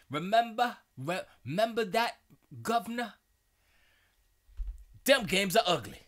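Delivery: high, loud hammed-up English accent; badly faked English accent. Streamer mocking Jim Ryan on old games, in a bad English accent. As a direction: shout it in a mock English accent. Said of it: "English accents".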